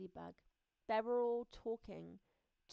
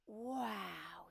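amazed ant. Acted. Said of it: "said the ant".

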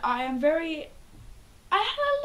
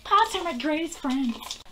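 friend impression; 4 semitones higher than usual. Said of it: "Do an impression of one of your friends".

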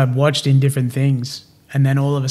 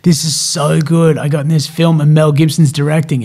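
louder, mildly elated quote; excited retelling; 5 dB louder than usual. Retold or imitated. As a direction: act out bursting with big news. Retelling his elation to girlfriend.

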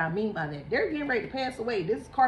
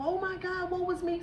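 higher, whiny self-blaming wail; mock self-pity; 8 semitones higher than usual. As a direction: play the panicked self-blamer, half-joking. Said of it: "I don't need you to beat yourself".

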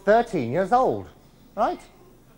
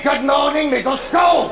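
higher, louder second greeting; louder headmaster; 8 semitones higher, 7 dB louder than usual. Pretend. Headmaster to assembly, louder repeated greeting. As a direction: demand a better response.

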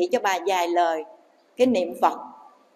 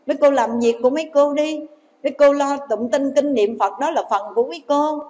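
retold indignant rebuff; 3 semitones higher than usual. Children telling the nuns to mind their chanting, mock indignant rebuff. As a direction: act out telling someone off, pitch raised.

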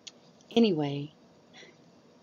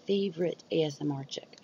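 whisper. Pretend. Talking about favorite ASMR creator.

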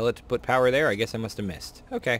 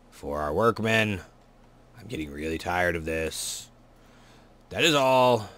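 stern prison warden announcement; 3 semitones lower than usual. Acted. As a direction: boom it out like the warden over the intercom. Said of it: "Warden voice is killing me".

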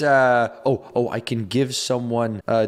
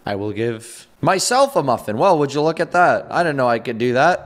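solemn diary voice; 4 semitones lower than usual. Pretend. Player writing a last diary entry, solemn hushed voice. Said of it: "I suppose I will write in my journal".

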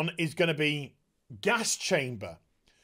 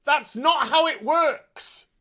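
slow exasperated; 8 semitones higher, 4 dB louder, slower than usual. Real, not acted. Reviewer exasperated.

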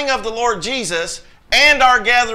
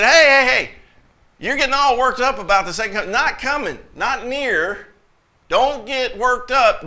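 raised-pitch mock call to calm down; mildly exasperated halting; 4 semitones higher than usual. Paul to worked-up believers, mildly exasperated halting. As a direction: rein in an excited crowd.

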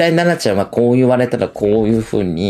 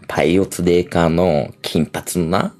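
lower, crude macho brag; lowered sleazy guy voice; Masatsugu voice; 4 semitones lower than usual. Retold or imitated. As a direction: play a lewd boastful man low. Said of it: "正嗣がな".

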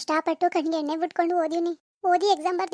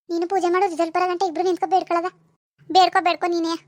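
a hint of a mocking village mother, a bit louder; lightly voiced mother ribbing her daughter; teasing mother; 4 dB louder than usual. Mother retorts, sends her off. (ಮಗಳನ್ನು ಹಾಸ್ಯ ಮಾಡುವ ತಾಯಿಯ ಸ್ವಲ್ಪ ಗಟ್ಟಿ ಧ್ವನಿ)

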